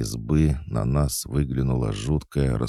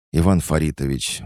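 mildly indignant, raised pitch and volume; 5 semitones higher, 5 dB louder than usual. Acted. Young manager reproaching the drunk performer, indignant. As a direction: scold him by name, appalled. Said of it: "возмутилась Вика".

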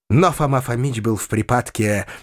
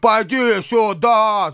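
shouted; 8 semitones higher, 3 dB louder, slower than usual. A narrator's reading. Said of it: "закричал он вдруг".

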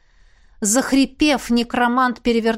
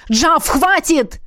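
громкий медленный крик выше обычного; ори, колотя по куполу; 6 semitones higher, 3 dB louder, much slower than usual. Acted. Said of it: "орал Родерик". (Родерик орёт на Джафа сквозь купол)

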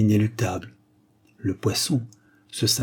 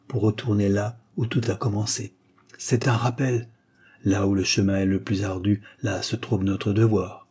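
more solemn; 2 semitones higher than usual. Acted. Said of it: "plus solennel encore".

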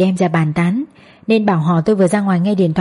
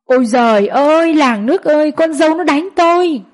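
wailing outcry; 7 semitones higher than usual. Acted. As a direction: cry out to the whole village as if beaten. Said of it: "la om sòm". (gào khóc ầm ĩ kêu làng nước)

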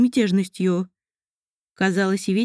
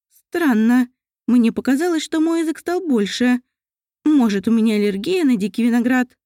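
put-on worried elf girl; 3 semitones higher than usual. Mariel worried.

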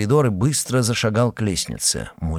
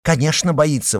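indignant; 7 semitones higher than usual. A narrator's reading. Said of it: "возмутилась Татьяна".

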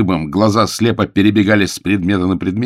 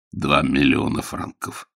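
slow, lower, unsteady words; shaky voice; 4 semitones lower, 3 dB quieter, slower than usual. Acted. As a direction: voice failing him with shock. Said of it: "неверным голосом отвечал капитан".

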